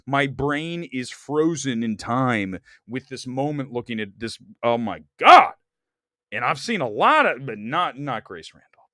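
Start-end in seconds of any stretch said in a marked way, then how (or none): 4.6-5.5 swooning. Real, not acted. Staring at Olsen photo.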